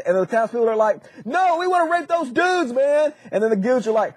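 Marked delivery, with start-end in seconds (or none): 1.2-3.1 higher-pitched, hammed-up demand; comic stubborn refusal; mock insistence. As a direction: insist like an impatient mob. Retold mob insists.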